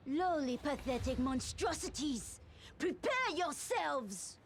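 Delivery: high, slow, scornful threat; contemptuous battle challenge; menacing villain. Acted.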